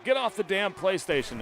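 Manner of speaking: high mock English wife, scolding; English accent. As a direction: imitate a wife's English accent, ordering him off. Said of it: "in her England accent".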